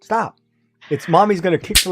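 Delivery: a cutesy sing-song mom threat; mock her sweet warning. Mocking her friend, a cute mom threat. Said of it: "you're doing it with a cute voice".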